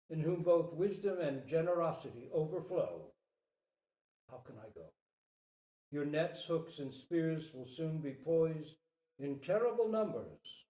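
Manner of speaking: earnest, urgent plea to a king; deer king pleading. Acted. Deer king begs the human king to spare fish, earnest. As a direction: speak for the silent fish.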